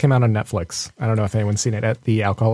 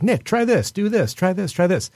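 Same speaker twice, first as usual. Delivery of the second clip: mock pushy bartender; 6 semitones higher than usual. Bar people pushing drinks.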